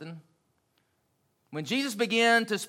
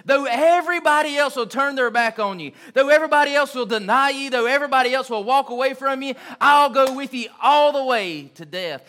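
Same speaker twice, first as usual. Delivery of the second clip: rising, heartfelt pledge, louder; earnest vow; 3 semitones higher, 4 dB louder than usual. Retold or imitated. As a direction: swear it with full conviction. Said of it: "Peter said that with some real feeling".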